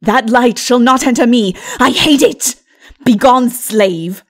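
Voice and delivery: loud, contemptuous dismissal; defiant sorceress. Acted. Lilith to Mara, loudly rejecting the light. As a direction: spit out slave and send her away.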